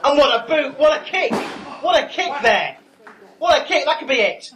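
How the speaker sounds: loud, high excited call; excited commentator. Acted. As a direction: shout it like the match-winning kick. Excited call of the big kick.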